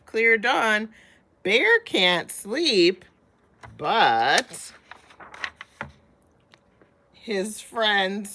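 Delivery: lively read-aloud, slowing way down at the end; story narration. A narrator's reading. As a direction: savour the last lines slowly as friends fall asleep. Reads picture book aloud.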